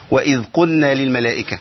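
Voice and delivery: قلنا said as قنّا, lam merged into nun; wrong merged lam. Shown as a demonstration. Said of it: "اللام الساكنة".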